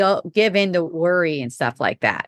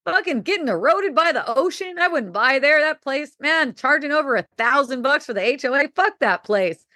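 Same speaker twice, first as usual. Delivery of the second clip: higher, animated blunt rant; excited rant; 6 semitones higher than usual. Retold or imitated. Friend asking about a condo, answered with a raised excited rant. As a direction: talk the condo down with gusto.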